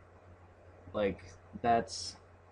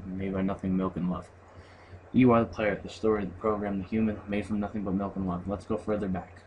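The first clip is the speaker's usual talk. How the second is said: measured, solemn reading of a poem; 3 semitones lower than usual. Acted. Gamer reads the End Poem to viewers, solemn. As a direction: read it like a closing poem.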